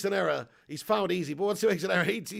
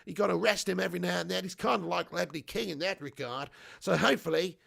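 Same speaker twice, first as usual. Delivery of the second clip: swooping mock-Aussie chat; bad Australian accent; 4 dB louder than usual. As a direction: keep up a hammed-up Australian accent. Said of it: "sorry for that abomination of an accent".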